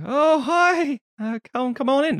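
high, mock Polish Yiddish old man greeting; old visitor greets the couple, Polish Yiddish accent. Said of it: "in his sort of Polish Yiddish".

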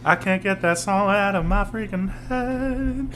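high, slow segment title voice; announcer voice. Acted.

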